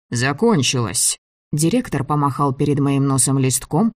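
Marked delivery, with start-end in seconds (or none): 0.1-1.2 slow, settled «Закончилась» with falling end; final contradiction. Acted. Director overruling the girl, slow final contradiction.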